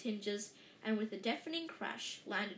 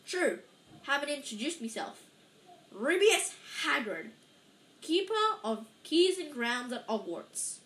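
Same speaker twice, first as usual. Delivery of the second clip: friendly giant; 4 semitones higher, 5 dB louder than usual. A narrator's reading. Hagrid introduces himself.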